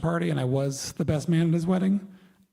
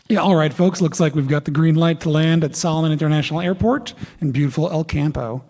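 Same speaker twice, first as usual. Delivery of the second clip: pilot voice; 7 dB louder than usual. Retold or imitated. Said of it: "this is a pilot voice".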